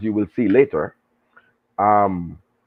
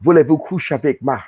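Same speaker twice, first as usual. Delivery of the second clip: mock French pickup line; 3 semitones higher than usual. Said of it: "run up on them and say".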